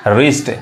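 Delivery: रिस्ट said as rist, the w silent; silent w pronunciation. Shown as a demonstration. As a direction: say रिस्ट with no w sound at the start. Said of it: "ये डब्ल्यू silent है". (रिस्ट, डब्ल्यू बिना बोले)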